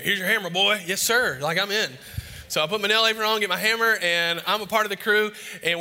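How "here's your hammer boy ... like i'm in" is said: put-on higher and louder, thrilled kid; excited. Boy thrilled to get his first hammer, excited. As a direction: burst with pride at being knighted.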